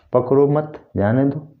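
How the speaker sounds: पकड़ो मत run together, then जाने दो; pause after मत. Shown as a demonstration. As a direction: read पकड़ो मत as one phrase, break before जाने दो. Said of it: "ये जगह इसका चेंज हो गया".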